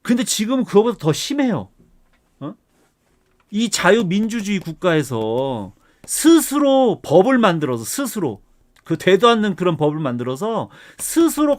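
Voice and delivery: heated, indignant lecturing with punched key words; worked-up rant. Real, not acted. Professor venting at online experts who treat guidelines as law, worked-up rant. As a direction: argue it hotly, voice riding up. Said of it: "이렇게 막 흥분을 해가면서".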